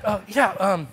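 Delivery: halting, awkward stalling; uncomfortable. Retold or imitated. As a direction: fumble for words, acting embarrassed. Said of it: "I'm, like, so uncomfortable".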